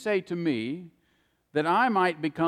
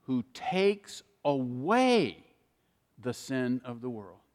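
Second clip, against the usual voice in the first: solemn true version; slower than usual. Shown as a demonstration. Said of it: "He said".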